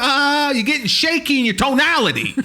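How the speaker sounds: high, loud indignant rebuke; acted outrage, voice pushed up; mock offended American. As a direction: call out disrespect in hammed-up anger. Acted hothead rebukes the robot.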